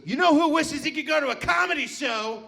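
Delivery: a hint of a self-pitying coworker; coworker's mopey voice. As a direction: lead into the dead dad, dragging it out. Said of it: "And he goes".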